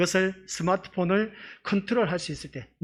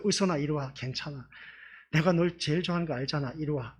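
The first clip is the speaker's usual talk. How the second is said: reassuring; 2 semitones lower, 5 dB quieter than usual. Retold or imitated. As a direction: coax her back gently. Comforting the sulking girl. (부드럽게 달래는 목소리)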